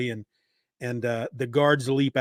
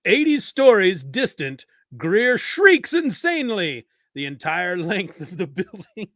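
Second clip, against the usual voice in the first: put-on old-timey radio guy; 3 semitones higher, 3 dB louder than usual. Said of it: "old-timey radio guy".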